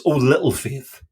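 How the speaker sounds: pastoral nuance. Retold or imitated. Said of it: "read it with a pastoral nuance".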